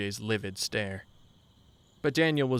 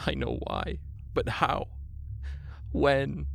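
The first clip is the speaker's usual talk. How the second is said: weeping; 4 semitones higher, slower than usual. A narrator's reading.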